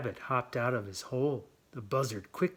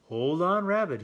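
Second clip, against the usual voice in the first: loud, high hold on; calling out; 7 semitones higher, 10 dB louder than usual. A narrator's reading. Buzzard calls to rabbit before diving, loud high. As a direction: call over the wind, loud and high.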